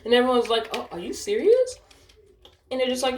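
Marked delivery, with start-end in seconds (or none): 0.7-1.8 higher-pitched, incredulous question; retold disbelief. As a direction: mimic a group caught off guard.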